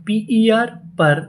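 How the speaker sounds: slow, letter by letter; पीईआर पर drawn out slowly, spelled then read; slow spelling out. Shown as a demonstration. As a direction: sound it out slowly for a class. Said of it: "हमारी meaning क्या बनी".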